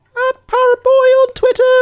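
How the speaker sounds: very high-pitched delivery, voice pushed up. Asked where they are online, speaker gives their handle in a high-pitched voice. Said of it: "let me do that in a not high-pitched voice".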